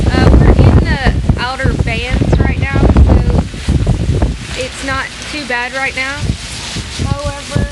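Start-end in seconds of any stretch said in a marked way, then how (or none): 0.1-3.2 raised voice over the wind; loud. Real, not acted. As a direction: push the voice over howling wind. Talking over hurricane wind.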